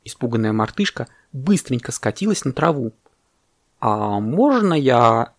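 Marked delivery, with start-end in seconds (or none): 3.8-5.3 slow, tentative request; hesitant boa. Acted. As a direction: begin asking, stretching the words. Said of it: "начал удав".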